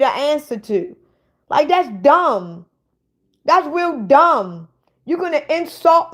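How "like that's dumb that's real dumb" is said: slow, drawn-out scorn; scornful. Real, not acted. Scorning the troll's question, slow and drawn out. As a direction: spell out how dumb it is.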